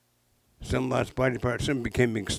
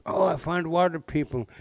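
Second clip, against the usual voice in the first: playful high voice; 6 semitones higher than usual. Acted. Otter's playful answer.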